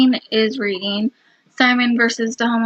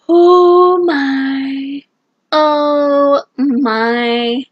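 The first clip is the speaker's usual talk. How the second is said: shocked oh my; 2 semitones higher, 4 dB louder, much slower than usual. Real, not acted. Reacting to plot twist.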